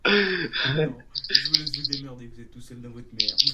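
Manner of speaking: loud joking through laughter; laughing. Real, not acted. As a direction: blurt it out while laughing. Laughing and joking after the show.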